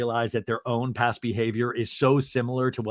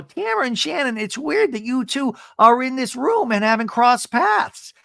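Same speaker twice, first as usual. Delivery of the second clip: mock stirring; 10 semitones higher than usual. Gina stirring drama.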